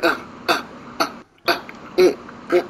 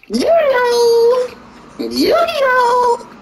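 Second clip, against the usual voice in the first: high excited yell; much slower than usual. Real, not acted. Yelling at the game, excited high call. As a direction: shout it up high.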